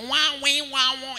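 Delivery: mimicked thick Kamba accent; exaggerated Kamba-accented sounds; heavy Kamba accent. Shown as a demonstration. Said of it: "Kamba accent ile nzito".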